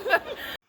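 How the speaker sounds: high embarrassed giggle; giddy laugh. Real, not acted. Vlogger laughing at being right up in the camera, high giggle. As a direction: giggle at being too close.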